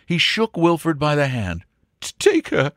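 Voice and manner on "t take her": high, stammering, choked-up voice; broken with emotion. Acted. Baronet gives Angela to Wilfred, voice breaking. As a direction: stumble on the first word, overcome. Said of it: "he said brokenly".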